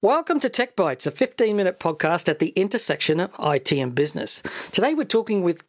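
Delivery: measured presenter read, lifted openings; podcast host intro. Acted. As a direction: introduce the show with punched key words. Reads the show's introduction.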